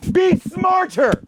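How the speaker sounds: yelling at critics, drawn out; slow shout. Real, not acted. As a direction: shout each word slowly. Scolding audience.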